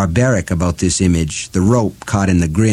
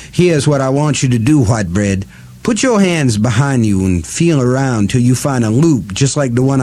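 cackling witch; 4 semitones higher than usual. Acted. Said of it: "She cackled again".

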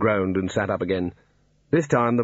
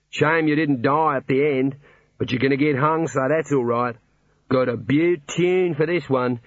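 breezy hidden speaker, pitched a little higher; lightly voiced, pleased songwriter; chatty ballad writer; 4 semitones higher than usual. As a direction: console the condemned man while admiring your own song.

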